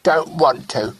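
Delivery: put-on a mild pout of a boy who won't kiss; sulky little boy.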